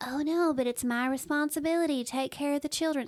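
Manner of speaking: put-on heavy laid-on Southern accent. A podcast host voices what some listeners would say, in a real Southern accent. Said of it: "I'm giving that real Southern accent".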